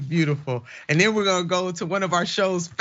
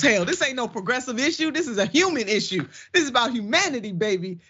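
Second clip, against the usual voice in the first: fast passionate insistence; 5 semitones higher, faster than usual. Real, not acted. Passionate rebuttal of the article.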